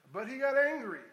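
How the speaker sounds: emphatic preaching. Real, not acted.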